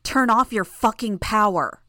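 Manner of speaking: loud, forceful angry command; angry growl. A narrator's reading. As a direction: order them harshly, voice up. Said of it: "Imp growled the question".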